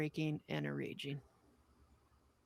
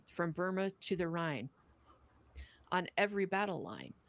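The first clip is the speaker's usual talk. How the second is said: measured, earnest recitation of a poem; steady, solemn poem reading. Acted. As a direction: read it like a letter home from the front. Reads a wartime poem aloud.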